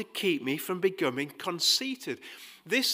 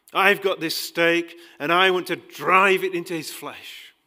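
the devil speaking; 6 dB louder than usual. Retold or imitated. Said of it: "the devil had said to God".

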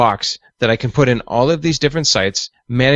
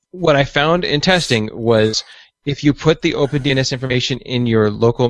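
ordinary delivery

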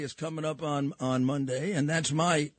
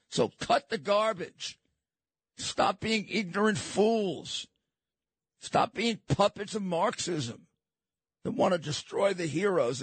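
exasperated, higher-pitched reprimand; scolding; 3 semitones higher than usual. Real, not acted. Host scolding those tearing down the statues, exasperated. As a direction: tell them off in emphatic, separated commands.

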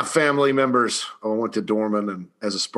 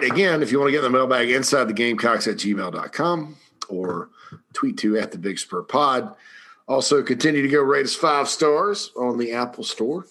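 hoarse, worn-out voice. Real, not acted. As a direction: talk through a tired, hoarse throat. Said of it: "My voice is a little shot today".

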